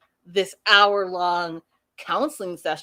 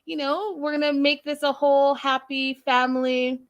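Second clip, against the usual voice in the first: imitating Sumit; 5 semitones higher than usual. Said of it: "He's like".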